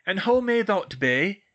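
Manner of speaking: slow, loud, high archaic voice; Middle English portrait. A narrator's reading. Medieval portrait questions a pupil, slow and imperious. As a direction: demand it slowly in old-world speech. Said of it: "interpret the Middle English".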